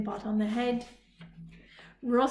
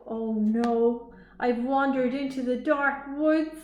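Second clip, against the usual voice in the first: worried; 2 semitones higher, 6 dB louder, slower than usual. Acted. Lost in dark woods.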